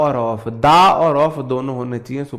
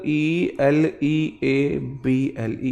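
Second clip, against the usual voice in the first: slow spelled question; much slower than usual. Retold or imitated. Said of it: "मेरे से question पूछा".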